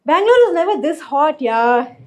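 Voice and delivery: mock complaining. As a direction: imitate everyone moaning about the weather. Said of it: "everyone's complaining like".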